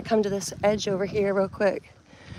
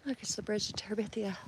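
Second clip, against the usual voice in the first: whispered; 9 dB quieter, faster than usual. Real, not acted. Mocking the crowd's view.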